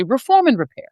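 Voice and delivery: lightly mocked party slogan; a hint of prim Democrat-speak. Imitating moderates offering their preferred slogan, mock earnest. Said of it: "which sounds so Democrat".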